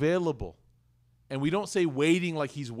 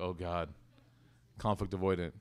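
mock groan; 8 semitones lower, 7 dB quieter than usual. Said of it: "They're like".

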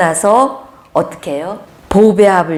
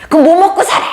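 much higher, louder "how will we live?"; hammed-up anxious husband; worried husband; 11 semitones higher, 6 dB louder, much faster than usual. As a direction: fret like a panicked husband. Quoting the husband's worried reply.

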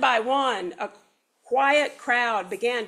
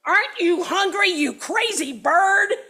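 wailed; 7 semitones higher, 5 dB louder than usual. Acted. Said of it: "wailed Don Pepe".

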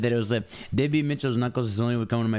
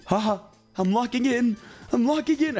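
possessed voice; 12 semitones higher than usual. Retold or imitated. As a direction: cackle like you're possessed. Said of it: "Are you getting possessed?".

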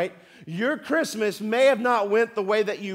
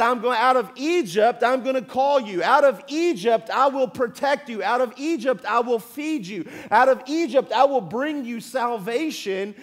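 louder, higher proclamation of each promise; proclaiming as God; 4 semitones higher, 5 dB louder than usual. Retold or imitated. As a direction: announce every promise with force. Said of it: "like God said".

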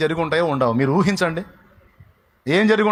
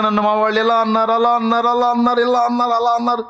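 higher, whining mock complaint; whiny complainer mockery; 8 semitones higher than usual. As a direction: mimic a self-pitying moaner. Mocking oversensitive complainers. (ఏడుపుగొట్టు అనుకరణ)

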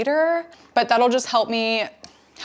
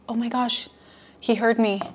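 ordinary talk

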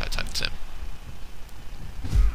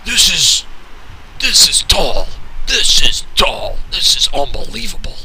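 higher, louder, stretched-out disbelief; awestruck hype; 4 semitones higher, 3 dB louder than usual. Acted. Commentator losing it over the kickout, higher and louder. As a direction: sell it like the match of the century.

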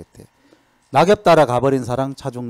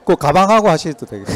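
usual speaking voice

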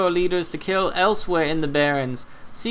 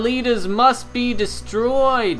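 North Highlands tauren voice; 5 semitones higher, 4 dB louder, slower than usual. Acted. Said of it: "This is a Torn from the North Highlands".

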